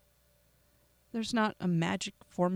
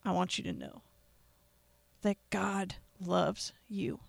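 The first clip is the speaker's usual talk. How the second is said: emotional whisper. Real, not acted. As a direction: let the feeling take your voice down to a whisper. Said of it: "apologize for getting so emotional".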